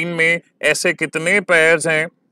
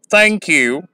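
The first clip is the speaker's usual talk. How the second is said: "thank you" with stress on THANK, light "you"; strong first word, weak second; trochee stress. Shown as a demonstration. Teacher giving a common trochee example, stress on "thank". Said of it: "ये एक ट्रोकी का example है".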